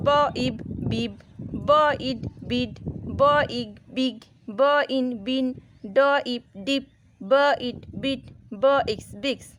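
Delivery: ব then ইব, then the joined word বিব; onset and rime blending. Shown as a demonstration. Teacher to pupils, blending the I family words. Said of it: "না হলে".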